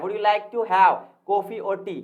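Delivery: slow question, "coffee" and "tea" leaned on; stress on the options. Shown as a demonstration. Teacher offering a choice of drinks, stress on "coffee" and "tea". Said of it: "जो option हम दे रहे हैं उस पर ज्यादा stress".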